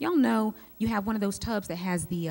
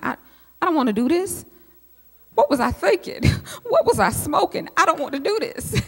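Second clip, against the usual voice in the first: put-on high, loud childish whine, laughing through it; high-pitched childish wail of regret; whiny kid complaint; 10 semitones higher, 7 dB louder than usual.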